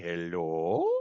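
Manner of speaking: put-on very low, deep South African accent, drawn-out hello. Retelling how a man opening the door greeted the speaker, in a South African accent. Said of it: "he's got like one of those South African accents".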